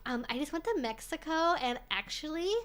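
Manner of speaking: mock Valley Girl with rising ends; spring-break Valley Girl impression, uptalking; Valley Girl accent. Streamer mimicking TV host as girl back from spring break, Valley Girl accent. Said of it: "he sounds like a girl who just came back from".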